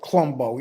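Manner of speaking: "Columbo" slurred into two syllables, "CLUM-bo"; lazy New York pronunciation. Shown as a demonstration. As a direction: swallow the first vowel of "Columbo". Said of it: "New Yorkers have la-, a lazy talk".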